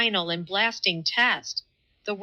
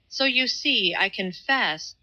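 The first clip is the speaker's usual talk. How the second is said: laborious distinctness; 2 semitones higher than usual. Acted. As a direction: spell it out as if it costs effort. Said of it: "with laborious distinctness".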